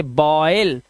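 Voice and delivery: "बॉयल" slow, with a full oy glide; pronunciation demo. Shown as a demonstration. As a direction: draw out "ऑय" inside "बॉयल". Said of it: "से पढ़ेंगे".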